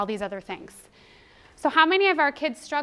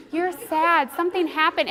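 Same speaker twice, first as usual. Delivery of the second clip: genuine validation; 4 semitones higher, 6 dB louder than usual. Shown as a demonstration. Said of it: "You have to be genuine".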